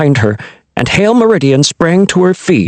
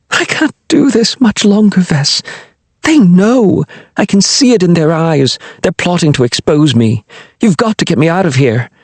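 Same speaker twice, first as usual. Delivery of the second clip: lightly voiced anxious queen, higher; a fretful young queen, pitched up; frightened queen; 5 semitones higher than usual. Queen fretting to her lover about spies, higher anxious voice.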